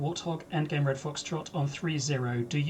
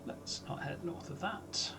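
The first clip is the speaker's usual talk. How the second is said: whispering; 2 semitones higher, 11 dB quieter, slower than usual. Real, not acted. Aside under breath.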